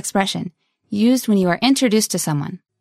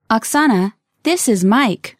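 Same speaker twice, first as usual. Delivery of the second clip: slowly. Shown as a demonstration. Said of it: "one more time slowly".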